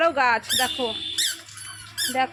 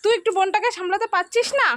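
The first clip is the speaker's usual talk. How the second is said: scolding; 5 semitones higher, 4 dB louder than usual. Real, not acted. Scolding about little sister.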